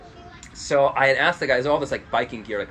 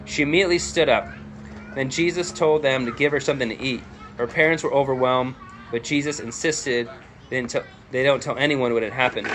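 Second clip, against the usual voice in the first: animated read-aloud of a Bible passage; scripture reading. A narrator's reading. Preacher reading the story of Jairus to the church, animated scripture reading. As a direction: read scripture out to a congregation, with emphasis.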